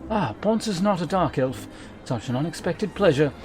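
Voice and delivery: a hint of a polite, smug host; courtly gentleman voice.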